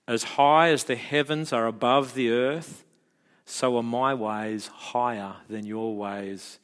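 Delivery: slow, solemn Bible reading; scripture reading. Shown as a demonstration. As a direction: read it slowly with reverence. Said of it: "I'll read it to you".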